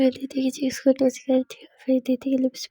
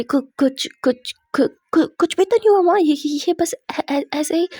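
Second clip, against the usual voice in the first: flustered denial; 3 semitones higher, 5 dB louder than usual. Acted. Daughter caught out by her mother, stammering nervous denial. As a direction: trip over the words, covering up.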